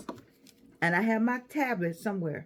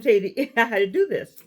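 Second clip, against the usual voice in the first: laughing; 7 dB louder than usual. Real, not acted. Laughing as she starts instructions.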